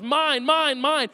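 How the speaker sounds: put-on screaming toddler. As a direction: imitate a toddler's repeated cry, half-voiced. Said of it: "screaming at the top of his lungs".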